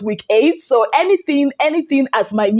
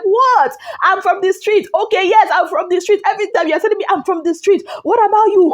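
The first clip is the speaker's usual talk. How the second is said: mock angry retort; 6 semitones higher than usual. Fina's heated quarrel retold.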